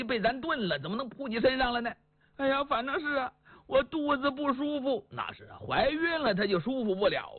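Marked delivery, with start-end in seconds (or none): 2.4-5.1 higher, fussy wife's voice; fretful wife. Acted. Wife tells husband and son the rooster scared her, fretful. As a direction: wail it like a spooked wife.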